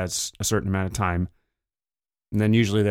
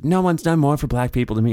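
hyperbole; 5 semitones higher, faster than usual. Retold or imitated. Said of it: "Trump would use the hyperbole thing".

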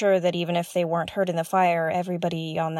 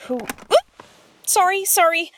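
sudden high, loud oop then flustered apologies; startled outburst after sitting on something; startled yelp; 9 semitones higher, 5 dB louder than usual. Real, not acted. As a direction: jump in surprise and apologise quickly. Sits on something unexpectedly.

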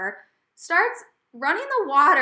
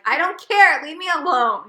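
annoyed snap; 5 semitones higher, 10 dB louder than usual. Retold or imitated. Fed up with chatty Joe.

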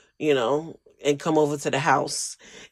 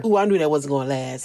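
mocking know-it-all; faster than usual. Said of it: "are like".

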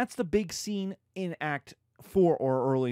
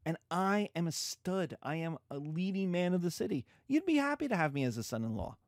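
higher, boastful suitor voice; mock Paris, boastful; 3 semitones higher than usual. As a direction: brag like a self-styled stud. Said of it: "And Paris is like".

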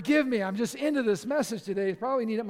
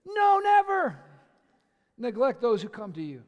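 emphatic repeat; 2 semitones higher, 7 dB louder than usual. Shown as a demonstration. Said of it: "let me repeat myself".

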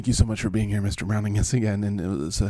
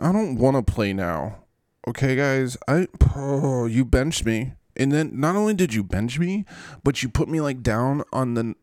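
mock sulking player, slightly raised pitch; Zach Wilson; 3 semitones higher than usual. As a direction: complain like a put-upon kid, lightly hammed up. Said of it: "could be Zach Wilson again, but he's like".

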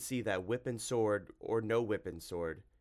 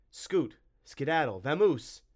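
high, loud, punchy dismissal; loud, high-pitched send-off; shooing shout; 7 semitones higher, 9 dB louder, slower than usual. A narrator's reading. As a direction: shout the creature away, word by word. Hero shoos the monster away.

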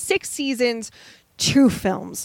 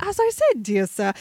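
put-on British accent. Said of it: "started talking in a British accent".

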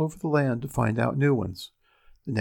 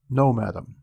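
a lightly voiced little dwarf, smug; a small touch of the dwarf's voice, teasing; gleeful dwarf. Dwarf answers the queen's guesses.

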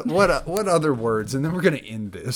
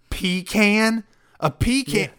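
high, incredulous PEE-can; "pecan" echoed high as PEE-can; 6 semitones higher, 3 dB louder than usual. Retold or imitated. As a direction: repeat it in mock disbelief, pitched up. Mocking incredulity at partner's pronunciation.

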